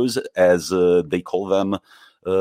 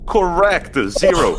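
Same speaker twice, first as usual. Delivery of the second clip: excited correct; 9 semitones higher, 4 dB louder than usual. Real, not acted. Quizmaster cheering a right answer.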